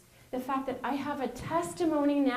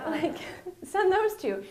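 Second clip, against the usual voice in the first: high, louder mocking boss tone; mock breezy dismissal; 8 semitones higher, 3 dB louder than usual. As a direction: toss it off like a careless manager. Mocking bosses picking them again.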